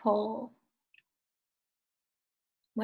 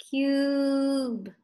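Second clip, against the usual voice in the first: CUBE with a long, held U; drawn-out slow; 3 semitones higher than usual. Shown as a demonstration. Teacher having pupils sound it out, drawn-out slow CUBE. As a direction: stretch CUBE slowly on one steady note. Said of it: "Say it slowly".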